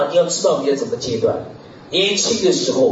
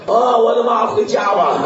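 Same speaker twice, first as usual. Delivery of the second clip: mock dismayed cry; 4 semitones higher than usual. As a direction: cry out in jest that it is too far, let's go home. Hiker gives up on hearing distance.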